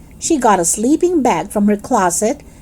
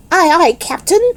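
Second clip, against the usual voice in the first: hilarious; 7 semitones higher than usual. Acted. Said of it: "I said, real hilarious".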